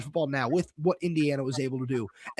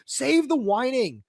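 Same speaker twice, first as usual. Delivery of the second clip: dismissive; 5 semitones higher, slower than usual. Real, not acted. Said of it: "dismissing rivals".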